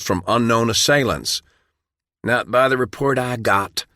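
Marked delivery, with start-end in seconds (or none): 2.2-3.8 snapped back sharply, a touch higher; sharp retort. Acted. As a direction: bite back at the accusation. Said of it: "Dale snapped back sharply".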